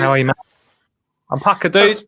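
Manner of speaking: put-on toff-style English accent, lightly done; mock posh English accent. Host greeting his co-host in a put-on posh English accent. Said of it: "you don't have to say it in this accent".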